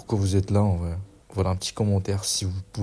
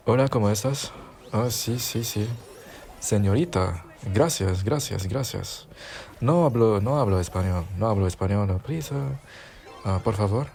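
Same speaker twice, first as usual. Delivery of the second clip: mock Spanish. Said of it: "Excusez mon espagnol".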